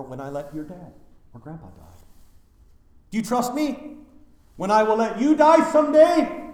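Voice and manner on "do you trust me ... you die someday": much higher and louder pleading question; rising fervour. Acted. Preacher as Jesus pressing mourners, loud high plea. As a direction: build the question to a loud peak.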